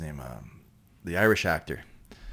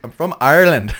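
laughing quote; 9 semitones higher, 14 dB louder than usual. Retold or imitated. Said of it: "he goes".

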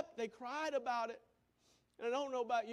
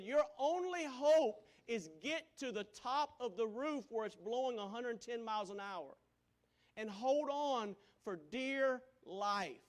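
raised, slow urgent warning; urgent anchor; 4 semitones higher, 4 dB louder than usual. Retold or imitated. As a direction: urge him to hold on for dear life. Anchor urging man on phone.

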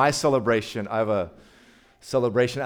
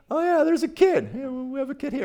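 bright surprise; 11 semitones higher than usual. Acted. Jesus voiced spotting a child.

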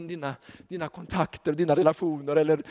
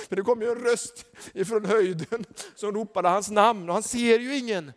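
ordinary talk, nothing marked

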